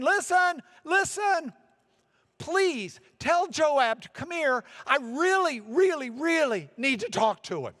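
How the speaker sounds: high, loud, urgent call. Acted. Wise woman calling to the troops for Joab, loud high call. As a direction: call out to get their attention. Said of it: "wise woman who's calling out".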